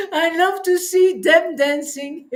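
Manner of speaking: words shaking with laughter and tears; joy spilling into laughing sobs; laughing and tearful. Real, not acted.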